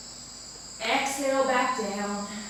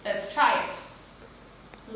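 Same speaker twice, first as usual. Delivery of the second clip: whispering; 4 semitones lower, 5 dB quieter, much slower than usual. Shown as a demonstration. Start of relaxation nap.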